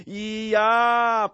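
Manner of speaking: high, loud exclamation; rousing me-too cry; eager chiming in. A narrator's reading. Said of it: "przydał Konewka".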